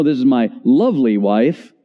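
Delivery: "lovely" swooping up in pitch; stress on "lovely". Retold or imitated. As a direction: lean on "lovely" when introducing the wife. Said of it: "put the emphasis on lovely".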